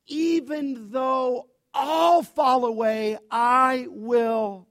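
slow, loud, drawn-out boast; bold vow. Retold or imitated. Peter boasting to Jesus, slow and loud. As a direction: Peter swears he'll stand firm, loudly. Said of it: "And Peter said to him".

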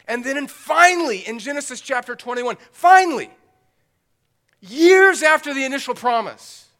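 very loud, high-pitched preaching shout; exultant exclamation. Real, not acted. Preacher announces promise fulfilled after years, exultant shout. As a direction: burst out with long-awaited relief on "finally".

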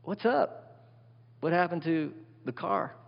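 high, startled what's up; surprised question. Retold or imitated. Parent seeing the student off the bus, surprised. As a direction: catch him off guard, amazed. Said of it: "And you're like".

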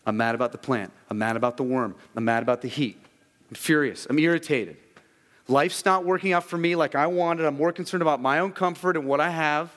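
from firm to loud and high complaint; preacher voicing Jonah getting furious; building anger. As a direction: let Jonah's gripe swell to a shout.

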